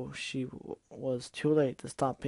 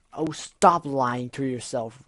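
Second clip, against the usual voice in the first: scornful; 5 dB louder, slower than usual. Acted. Gilda contemptuous.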